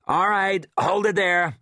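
a lightly voiced station chief calling out orders; barking orders. A narrator's reading. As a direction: voice the leader giving quick commands. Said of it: "barking orders".

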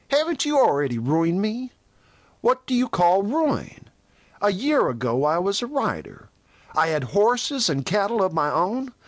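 high-pitched, impassioned protest; passionate. A narrator's reading. Venters accuses Toll of hounding him, passionate. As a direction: pour out the grievance with rising indignation. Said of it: "exclaimed Venters passionately".

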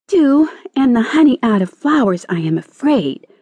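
high, mildly plaintive caterpillar; sighed reply. A narrator's reading. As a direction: sigh it out, starting high and sinking. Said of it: "sighed the caterpillar".

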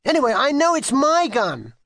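put-on high, insistent child's outburst; cross, high-pitched insistence; mild shout. A narrator's reading. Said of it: "shouted Kitty".

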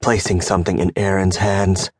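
ordinary delivery, nothing marked

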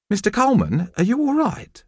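high, kind and gentle concern; a kind teacher asking a worried colleague gently; kind, melodious. A narrator's reading. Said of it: "in her kind, melodious voice".

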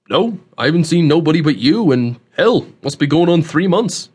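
lightly voiced country host; a folksy backwoods twang, offhand and emphatic; rustic old man, casual. Host answers about seeing nobody, casual rustic voice.

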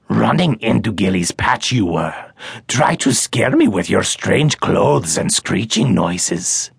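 the small forest creature, eager to please; a hint of a quaint creature; little creature voice. Gilly speaks in creature voice.

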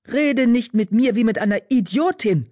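high, heated spitting anger; angry. A narrator's reading. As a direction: lash out, insulted and furious. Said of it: "Wind fauchte".

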